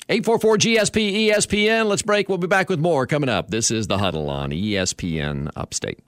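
radio break tease. Real, not acted. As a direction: send it to break like a sports radio host. Radio host reads station outro.

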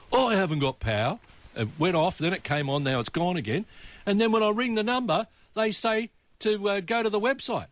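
mock-aggrieved complaint, pitch rising to the end; frustrated caller. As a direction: imitate a caller building to high-pitched frustration. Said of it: "you could hear the frustration in his voice".

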